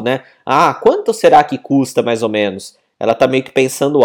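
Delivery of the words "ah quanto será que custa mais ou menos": musing to oneself; mild musing question; thinking aloud. Shown as a demonstration. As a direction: wonder aloud about the price. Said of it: "como se a pessoa tivesse pensando alto".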